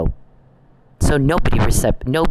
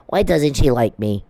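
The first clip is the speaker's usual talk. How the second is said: mock lament of a rejected suitor; mocking imitation. Mocking the man who can't get a date, mock-pleading. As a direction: imitate him feeling sorry for himself. Mimics a rejected man's complaint.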